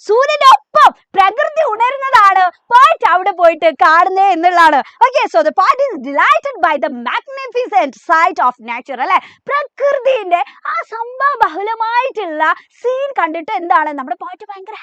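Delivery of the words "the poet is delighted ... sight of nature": very slow, word by word English reading; dictating to a class; slow note dictation. Acted. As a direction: read the notes out slowly for students to copy. Reads English notes aloud.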